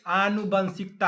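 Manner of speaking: आनुवंशिकता said slowly, syllable by syllable; spelling it out slowly. Shown as a demonstration. Teacher dictating a word to students, said slowly. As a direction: stretch out आनुवंशिकता so students catch every syllable. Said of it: "तुम्हें मैं आनुवंशिकता लिख रहा हूँ ना".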